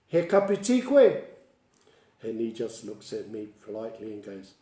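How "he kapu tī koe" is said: asking the elder. Retold or imitated. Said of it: "I says to him".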